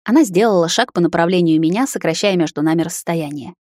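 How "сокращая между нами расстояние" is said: usual speaking voice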